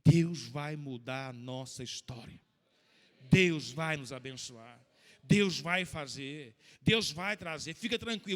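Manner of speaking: gritando e chorando, bem devagar; proclamação chorosa, alta e lenta. Retold or imitated. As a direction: declare em voz alta com choro, pausado. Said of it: "chorando, falei". (falando à esposa com choro, bem alto e devagar)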